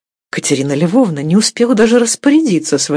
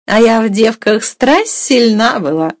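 eager boast in a higher voice; unable to hold back; 5 semitones higher than usual. A narrator's reading. Young mistress cannot resist boasting of her strength, eagerly. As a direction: jump in with a high, eager claim. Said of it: "опять не утерпев".

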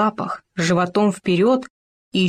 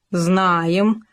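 pompous. Acted. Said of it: "важно сказал Хома".

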